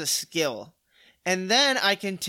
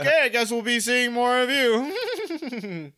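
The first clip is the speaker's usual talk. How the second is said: teasing voice; 4 semitones higher than usual. Retold or imitated. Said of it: "I got so much crap for that".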